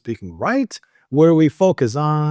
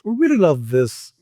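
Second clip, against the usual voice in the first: three times fast. Shown as a demonstration. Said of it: "try this three times fast".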